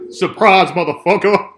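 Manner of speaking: loud, high gleeful yell; gleeful shout. Real, not acted. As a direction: shout it at the screen. Shouting line at screen.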